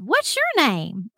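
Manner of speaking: lightly put-on country boy voice; thick country accent. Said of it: "a guy with an absolute thick country accent".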